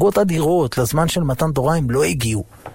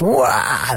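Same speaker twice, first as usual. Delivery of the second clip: mock child wail; 3 semitones lower, much slower than usual. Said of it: "התחילה לצרוח בקולי קולות".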